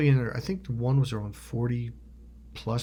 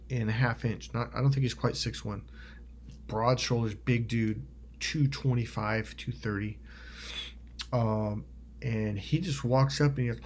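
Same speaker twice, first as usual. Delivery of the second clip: usual speaking voice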